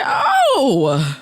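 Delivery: high, loud incredulous shout; shouting back at the man who called her a bitch; outraged shout. Retold or imitated. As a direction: rise up in disbelief at the insult. Outraged reaction to insult retold.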